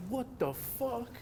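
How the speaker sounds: high, slow, stunned "what the fuck"; shocked disbelief. Retold or imitated. First seeing a skater shred, stunned and disbelieving. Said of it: "And I was like".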